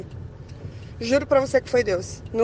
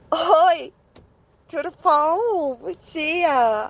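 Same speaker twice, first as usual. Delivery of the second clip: sweet greeting; 4 semitones higher, much slower than usual. Retold or imitated. Sweet reply to her crush.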